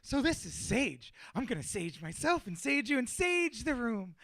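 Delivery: airy, unhurried healer voice; soft airy voice. Retold or imitated. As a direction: explain it softly, like a gentle healer. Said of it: "like, soft and airy voice".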